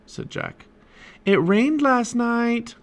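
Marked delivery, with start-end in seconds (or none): 1.2-2.8 high, drawn-out call; mom calling out. A narrator's reading. Mom calls a warning to her kids, high calling voice. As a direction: sing out slowly from another room. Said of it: "called his mom".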